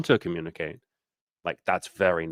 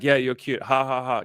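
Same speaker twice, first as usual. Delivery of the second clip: mock drunk man; 5 semitones higher than usual. Acting a drunk man brushing her off.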